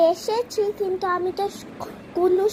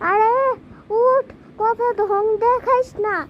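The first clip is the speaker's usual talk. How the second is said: mom calling out. Acted. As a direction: keep hammering wake up, I'm sweeping. Mom waking sleeping daughter to sweep.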